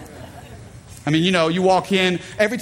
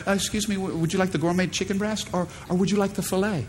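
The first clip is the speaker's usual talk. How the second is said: posh flight attendant; 5 dB quieter, faster than usual. Retold or imitated. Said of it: "it's like".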